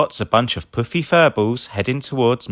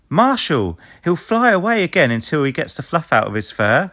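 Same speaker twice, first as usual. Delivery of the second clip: Ryder voice; 7 semitones higher, 3 dB louder than usual. A narrator's reading. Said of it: "says Ryder".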